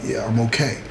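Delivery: hurt, strained voice. Retold or imitated. Beaten cousin answering officer, softly in pain. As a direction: answer through the pain of a beating. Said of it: "he's sounding kinda strange".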